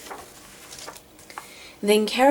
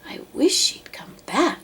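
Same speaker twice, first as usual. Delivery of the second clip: grumbling whisper; 10 semitones higher than usual. Acted. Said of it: "the poor elephant grumbled".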